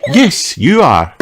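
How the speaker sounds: high, friendly doctor; kindly doctor greeting a child; Doctor Polar Bear voice. Acted.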